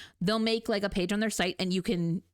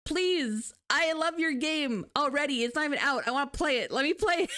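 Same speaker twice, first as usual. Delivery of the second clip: high, eager, begging voice; excited pleading; 6 semitones higher than usual. Retold or imitated. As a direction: beg to play it, thrilled. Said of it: "and I'm like".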